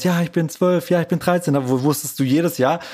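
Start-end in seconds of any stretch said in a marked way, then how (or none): 0.0-1.5 imitating a proudly announcing child, pitched higher; mildly mock-proud, higher kid's boast. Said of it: "so ganz stolz".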